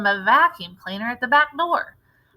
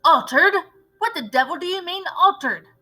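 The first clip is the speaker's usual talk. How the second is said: shocked outburst; 7 semitones higher than usual. A narrator's reading. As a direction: throw the word back in disbelief.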